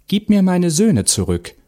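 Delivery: high-pitched, urgent demand; demanding mother. A narrator's reading. Mother demands her sons back from the witch, demanding. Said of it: "forderte die Mutter".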